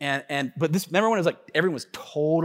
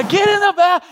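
loud mock order; 13 semitones higher, 7 dB louder than usual. Ranger relents.

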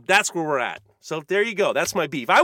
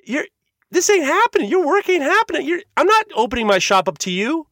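angry retort; 9 semitones higher, 4 dB louder than usual. Retold or imitated. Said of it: "I said".

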